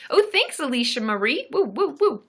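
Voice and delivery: high-pitched delight with whoops; excited thanks. Real, not acted. Host thanks a viewer, excited and whooping. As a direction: thank them brightly, then whoop in a high voice.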